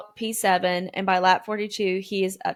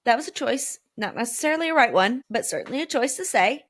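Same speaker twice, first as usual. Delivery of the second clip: sarcastic quip; 5 semitones higher than usual. Retold or imitated. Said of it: "I was like".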